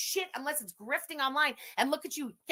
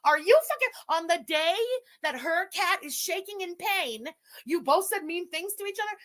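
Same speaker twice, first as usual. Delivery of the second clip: outraged shout; 6 semitones higher than usual. Real, not acted. Streamer confronting the pet owners, outraged higher shout. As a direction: hurl it like an accusation.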